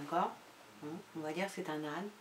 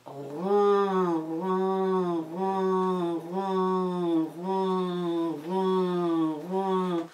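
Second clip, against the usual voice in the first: purring cat; much slower than usual. Shown as a demonstration. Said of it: "Tu fais".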